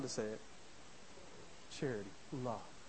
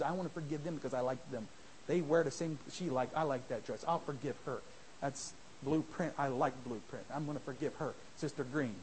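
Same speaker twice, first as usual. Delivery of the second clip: lower, lightly mocking petty voice; mocking a petty churchgoer; 5 semitones lower than usual. Preacher mocking choosy forgiveness in a lower petty voice. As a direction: play the shallow forgiver with a smirk.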